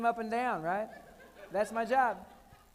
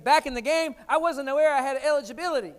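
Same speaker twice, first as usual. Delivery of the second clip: incredulous reply; 4 semitones higher, 8 dB louder than usual. Retold or imitated. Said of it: "I said".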